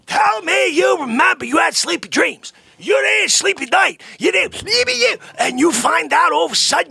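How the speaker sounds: high, loud wailing rant; mock anguished shouting. Ranting at Sonny about his old tea, mock anguished yelling. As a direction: yell it at him, half sobbing in mock despair.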